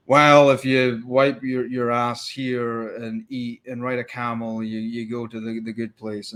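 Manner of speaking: slow, drawn-out mock preaching, fading off; mocking recital. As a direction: drag it out dismissively, losing volume toward the end. Mocking simplistic religious rules.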